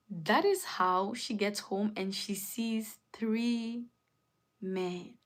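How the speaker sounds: suspenseful whisper. Real, not acted. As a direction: drop to a whisper for the reveal. Suspense reveal after "guess what.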